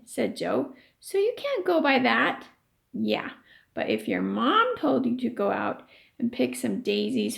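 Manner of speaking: lively read-aloud voice for the class; story reading. A narrator's reading. Teacher reading a chapter to her class, storytelling voice.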